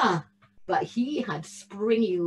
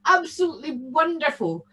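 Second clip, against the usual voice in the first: high, fast, gleeful goblin chatter; a bogle gloating over his plan; excited bogle; 7 semitones higher, 3 dB louder, faster than usual. Acted. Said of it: "in excitement".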